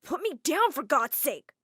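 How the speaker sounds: protesting. Acted. Adam carried, protests.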